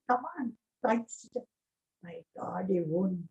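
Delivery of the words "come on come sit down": softer, quicker retold coaxing; softly voiced, kindly summons; loving invitation. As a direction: gently invite them to sit. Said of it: "So lovingly he's saying".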